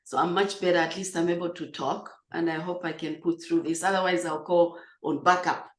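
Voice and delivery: raspy voice still recovering from a cough; hoarse voice. Real, not acted. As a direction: talk hoarsely, carefully saving the voice. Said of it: "just recovering from a bad cough".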